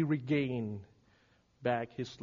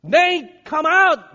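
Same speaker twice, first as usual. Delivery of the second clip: shouted summons by name; high, very loud command; full shout; 12 semitones higher, 15 dB louder, slower than usual. Acted. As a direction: call someone out of a tomb. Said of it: "he's shouting to all of us".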